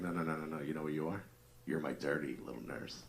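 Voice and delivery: hushed bedroom tease; soft dirty talk. Retold or imitated. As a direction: coo it to her in bed. Dirty talking wife in bed.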